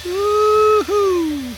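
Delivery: a high playful woo-hoo; high delighted whoop at a moving croc. Real, not acted. Cheer at croc.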